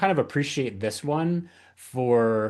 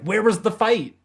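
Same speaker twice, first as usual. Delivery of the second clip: high, loud incredulous question; baffled protest; 11 semitones higher, 6 dB louder than usual. Retold or imitated. Co-host questioning a missing storyline, mock incredulous. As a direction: play up the bewilderment.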